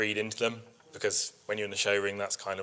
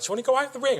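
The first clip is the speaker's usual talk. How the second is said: much higher, sing-song polite offer; mock sweet concern; 4 dB louder, much faster than usual. Show officials offering to lead her out, high mock concern. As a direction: ask it in a bright, pitying voice. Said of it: "they were like".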